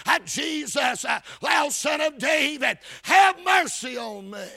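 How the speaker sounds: preacher's emphatic quoted cry. Acted. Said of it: "he began to cry out and say".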